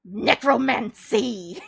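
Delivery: loud, slow, drawn-out shout; exclaiming. Retold or imitated. Streamer retelling the cancelled flight punchline, drawn-out yell. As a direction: stretch the word out loudly. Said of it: "And I was like".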